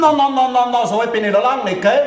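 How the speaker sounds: wounded vanity cutting in; indignant protest. Acted. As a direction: protest your age indignantly. Protesting his guessed age.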